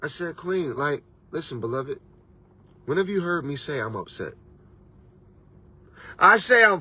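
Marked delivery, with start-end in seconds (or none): 0.3-4.3 calm retold reply. His calm reply to upset sister.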